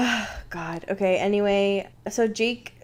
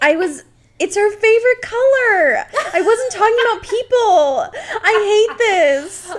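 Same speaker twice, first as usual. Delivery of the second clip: higher, louder, laughing flustered protest; embarrassed laughing; 10 semitones higher, 5 dB louder than usual. Real, not acted. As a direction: squirm and laugh at your own slip. Embarrassed after accidental innuendo.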